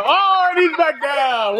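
slow, laughing shout; laughing commentary. Real, not acted. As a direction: call it out while laughing.

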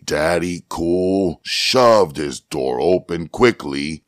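usual speaking voice

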